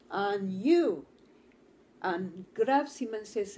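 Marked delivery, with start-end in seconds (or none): 0.1-1.1 loud, hearty call from the father; a big loud welcome to the little boy; booming greeting. Retold or imitated.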